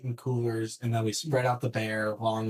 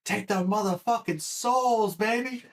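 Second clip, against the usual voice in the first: stretched-out battle cry; screaming at himself; 10 semitones higher, slower than usual. Retold or imitated. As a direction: roar it to push through the pain. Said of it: "I was just screaming at myself".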